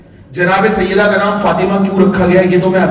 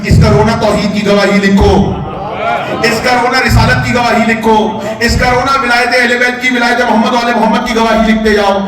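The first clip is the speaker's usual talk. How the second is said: impassioned preaching; 2 semitones higher than usual. Real, not acted. Preaching, building God's command.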